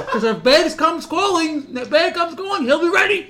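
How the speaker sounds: high, loud laughing tease; laughing teasing of the guest. Real, not acted. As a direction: rib him while laughing.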